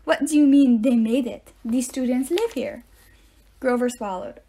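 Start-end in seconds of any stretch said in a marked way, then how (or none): 0.0-2.8 stern rebuke. A narrator's reading. Teacher scolding nervous Grover.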